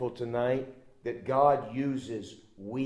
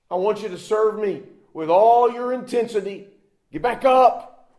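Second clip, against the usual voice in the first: rousing command; 8 semitones higher, 8 dB louder than usual. Acted. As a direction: lift him to his feet with the words. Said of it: "the Lord was saying to him".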